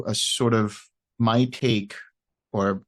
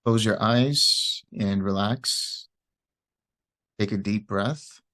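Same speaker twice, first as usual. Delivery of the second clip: unhurried meditation guidance with long pauses; guided meditation. Real, not acted. Teacher guiding listeners through loving-kindness meditation, calm and unhurried. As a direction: ease listeners into relaxing, leaving space after each phrase.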